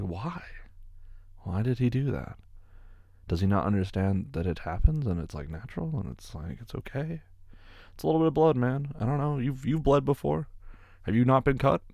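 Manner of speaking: put-on incredulous, as if asking the boyfriend directly; like scolding a clueless guy, half-laughing in disbelief; exasperated disbelief. Exasperated imagined rant at boyfriend.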